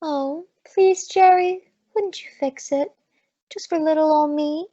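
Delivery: bat your eyelashes with your voice; coaxing flirt. Acted. Maisie sweet-talking the bellboy into letting her in, flirty coaxing. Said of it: "when you flutter your little old eyelashes like that at me".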